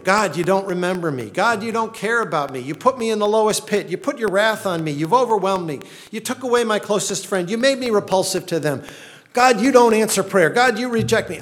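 anguished lament. Acted. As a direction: cry out to God like a man at the bottom of a pit. Preacher voices psalmist's desperate prayer.

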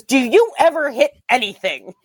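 a hint of a snide robot; taunting machine voice. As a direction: sneer at the player's bad shots. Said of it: "It goes".

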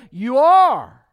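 loud, high You are; preacher's booming answer to his own list; booming emphasis. Real, not acted. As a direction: thunder the words You are at the congregation. Preacher drives home point.

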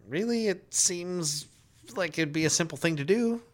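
high-pitched mock disbelief; retold incredulous pushback. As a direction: question the rep in high, drawn-in disbelief. Retold arguing with Sony support.

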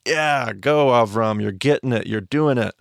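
upbeat cheer. Retold or imitated. God cheering Avram on, excited. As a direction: cheer him on like a coach. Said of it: "God kinda, like, jumps in and starts cheering".

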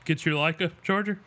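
talking mid-yawn; words stretched by a yawn. Real, not acted. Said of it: "Sorry, I was yawning".

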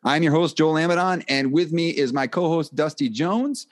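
smooth radio announcer rhythm. Acted. Host opening the podcast for listeners, announcer voice. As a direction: open the show like a radio announcer. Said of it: "the rhythm and tenor of an announcer in your announcing voice".

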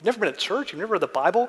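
high, stunned disbelief; can't believe what he's hearing; retold gasp of shock at a churchless man; flabbergasted. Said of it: "absolutely flabbergasted".

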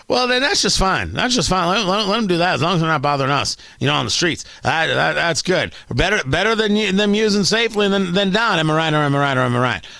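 lightly mocked New York character, rattling along in places; a touch of caricatured New York patter; put-on New Yorker. Host playing poster defenders shrugging off drug use, put-on New York voice. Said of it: "I don't know why they sound like that".

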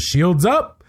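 "Shields up" with a high rise on "up"; joking command. Retold or imitated. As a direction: toss out "Shields up" like a joke, lifting the end. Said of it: "I kinda thought it was a joke".

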